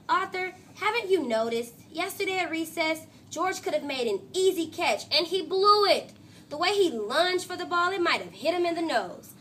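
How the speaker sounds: indignant complaint. Acted. Francine complaining about George.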